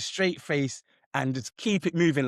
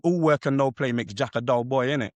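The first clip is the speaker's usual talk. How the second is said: the same proverb again, lightly English; English accent. Acted. Mate repeating his proverb when asked, light English accent. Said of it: "I said".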